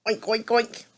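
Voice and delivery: lightly imitated pig oinks; hog oinking. Reader answering what a hog says, mild pig imitation. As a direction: oink three times like a hog. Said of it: "What does a hog say?".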